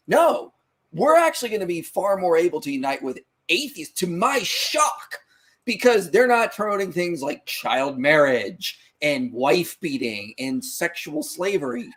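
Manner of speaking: emphatic, slowing down on each item; impassioned. Retold or imitated. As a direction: press the objection with passion. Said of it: "I appreciate your passion".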